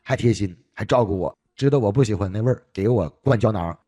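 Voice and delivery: imitated grateful praise. Old patient thanking doctor for filling capsules, imitated as grateful praise. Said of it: "就表扬我".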